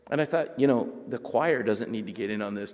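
usual speaking voice

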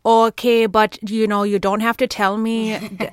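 put-on Southern accent. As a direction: play a beer-drinking Southern dad with a light mock accent. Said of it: "I just like to practice accents".

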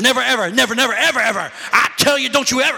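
too mad for words, just repeat never; imitating a furious mother. Mother too angry for words during a whipping, imitated sputter. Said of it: "She got so mad she couldn't come up with no words".

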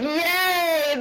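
high, loud cheer; squealed yay. Retold or imitated. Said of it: "I was like".

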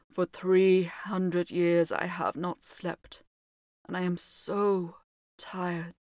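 slow weary sorrow; mildly mournful and tired, slow; sad. Acted. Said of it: "he said sadly".

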